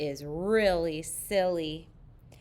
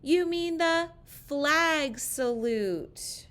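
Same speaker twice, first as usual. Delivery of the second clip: slow, higher chiding chorus voice; playful kids' scolding, slowed down; children correcting teacher; 7 semitones higher, slower than usual. Acted. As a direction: drag it out like a class teasing teacher.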